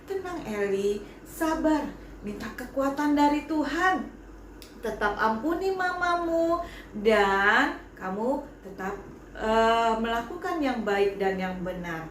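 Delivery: gentle, calm reassurance; teacher comforting the child lovingly. Acted. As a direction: soothe the crying child. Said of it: "Tapi dengan penuh kasih".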